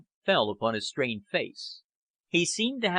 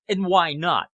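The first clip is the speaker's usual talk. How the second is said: louder, higher heated challenge; passionate demand; 6 semitones higher, 7 dB louder than usual. Acted. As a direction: fire the question back angrily. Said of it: "Fenn demanded passionately".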